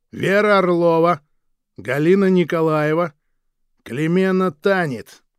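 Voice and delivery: slow, loud, high roll call; loud reading of list. Acted. Guard reading out condemned ladies-in-waiting, loud and slow. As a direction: announce each name like a sentence.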